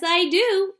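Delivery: high bright Wonka reply; gleeful answer. Acted. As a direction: answer with delight. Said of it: "answered Mister Wonka".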